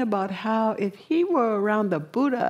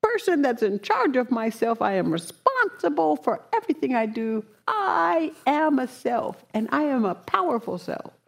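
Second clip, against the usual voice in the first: mocking scornful boast; 4 semitones higher than usual. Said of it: "He's laughing at him like".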